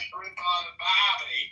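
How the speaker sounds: mock Australian accent. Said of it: "I wish I could speak with a cool accent like that".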